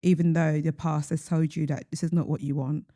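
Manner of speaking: deadpan mock advice; dry, understated sarcasm; sarcastic. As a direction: give awful advice as if sincere. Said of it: "I hope you hear the sarcasm".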